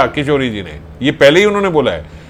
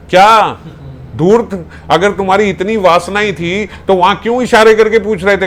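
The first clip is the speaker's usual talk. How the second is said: angry scolding; 5 semitones higher, 3 dB louder than usual. Acted. Sakhi scolds Shyam in anger.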